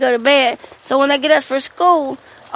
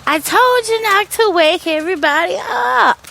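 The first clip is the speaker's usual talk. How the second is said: higher, exasperated telling-off; retold scolding; 5 semitones higher than usual. Scolding the child who woke the house, exasperated. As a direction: scold with the last word stretched.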